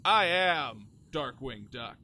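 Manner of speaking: a hint of a grand cartoon hero announcing himself; Darkwing Duck. Cartoon hero tells everyone who he is, lightly grandiose and loud. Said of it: "I would be Darkwing Duck".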